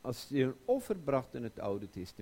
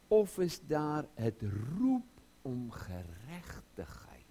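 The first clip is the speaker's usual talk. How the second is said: usual speaking voice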